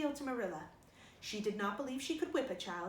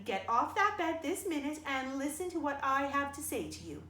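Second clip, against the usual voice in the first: stern order; 3 semitones higher, 4 dB louder than usual. Acted. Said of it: "with greater severity".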